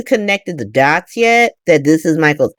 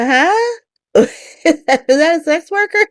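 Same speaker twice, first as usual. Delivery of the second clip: shocked; 11 semitones higher than usual. Acted. Acted shocked friends' reaction.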